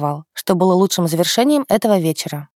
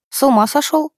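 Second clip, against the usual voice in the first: higher, indignant cry; 6 semitones higher than usual. A narrator's reading. Granddaughter scolds grandpa over his cigarette, indignant. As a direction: snap at grandpa for smoking. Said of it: "возмутилась я".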